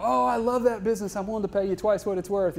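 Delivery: high, eager buyer gushing; giddy excitement. Retold or imitated. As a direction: gush like an overexcited buyer. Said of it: "having a business partner that's manic depressive".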